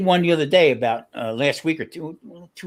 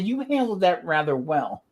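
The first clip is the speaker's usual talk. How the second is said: slow, higher imitated deadpan praise; retold dry understatement; 4 semitones higher than usual. Marie to the driver after his screaming fit, retold dry understatement. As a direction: quote her measured verdict, drawn out. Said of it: "'cause I was yelling and screaming".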